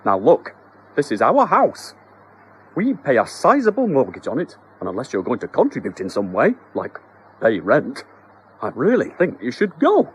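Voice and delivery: husband lecturing the mouse; mock stern. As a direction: try to sound firm and reasonable. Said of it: "tried to look stern".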